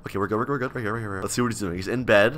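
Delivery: low, very soft murmur; hushed relief. Real, not acted. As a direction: keep it down while hiding. Hiding near the couple.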